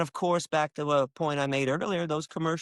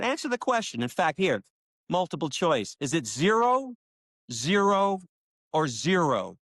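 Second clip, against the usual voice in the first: challenging retort; 2 semitones higher, 3 dB louder than usual. Retold or imitated. Challenging a difficult questioner.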